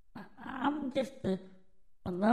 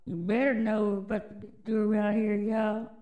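hyped-up repeat; faster than usual. Real, not acted. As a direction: push it harder, daring them. Repeats hype line, louder.

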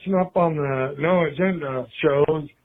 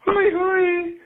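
high cried "hooey, hooey"; mock scream; 12 semitones higher than usual. Caller mocking a screamed insult, pitched high. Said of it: "You scream at someone".

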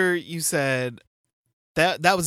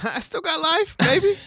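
excited. Real, not acted. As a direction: crow it out, laughing. Playful boast.

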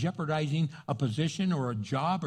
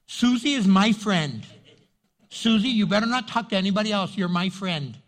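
jealous friend; 5 dB louder than usual. Retold or imitated.

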